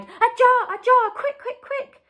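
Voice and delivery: high, loud, urgent call for a jar; urgent cry. A narrator's reading. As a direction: hurry her, voice shooting up. BFG urgently demanding a jar.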